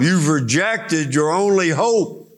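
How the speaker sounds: a lightly voiced Jesus, pleading. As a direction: cry out to Jerusalem as Jesus. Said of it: "Because he's telling them".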